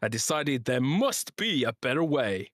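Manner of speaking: lilting, emphatic sponsor read. Acted. Podcast host reading the sponsor's drink ad, emphatic ad read. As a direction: sell it with swooping stress on key words.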